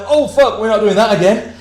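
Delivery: high-pitched mock panic; retold alarm. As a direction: replay the group's rattled relief, pitched well up. Retold alarm after the cop leaves.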